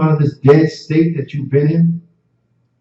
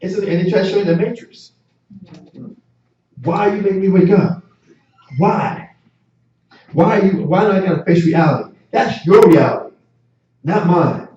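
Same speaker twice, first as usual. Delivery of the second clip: put-on whiny woken baby; 3 semitones higher than usual. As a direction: whine like a baby dragged out of sleep. Preacher voices woken, angry baby.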